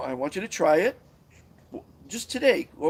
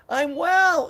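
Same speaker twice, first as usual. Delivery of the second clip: high, loud shout back; yelled answer; 13 semitones higher, 7 dB louder than usual. Retold or imitated. Friend yelling back that they are healthy. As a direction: yell it across the street. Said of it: "Or you yell back".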